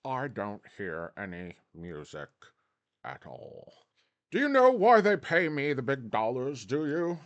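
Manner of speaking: a hint of a condescending British boss; British accent. A Wall Street chief lording it over staff, lightly British. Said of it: "somebody's gonna come in from Britain and go".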